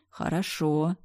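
plain reading voice

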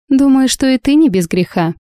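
cold cutting reply; curt retort. A narrator's reading. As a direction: cut her off with a jab. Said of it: "отрезала Алёна".

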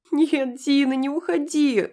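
высокий громкий детский крик; кричи сквозь рыдания; истерика девочки. A narrator's reading. Девочка в истерике зовёт Дину. (девочка в истерике зовёт)

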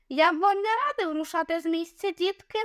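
high, mock-sweet menacing voice; menacing threat. A narrator's reading. Young Egyptian threatening the children with a knife, menacing. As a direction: taunt the children with a blade. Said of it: "загрозливо промовив він".

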